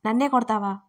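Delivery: a fairly loud, indignant protest; mock-offended yell at being hit; angry cry. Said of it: "ఆమె అరిచింది కోపంగా, కాస్త గట్టిగా". (కోపంగా కాస్త గట్టిగా అరుపు)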